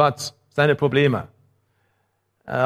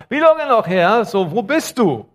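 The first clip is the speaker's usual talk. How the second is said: high, louder plea to God; desperate cry; 6 semitones higher, 3 dB louder than usual. Acted. The prophet Habakuk cries out to God in desperate, raised plea. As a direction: cry out like a prophet who feels abandoned. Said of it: "und er sagt".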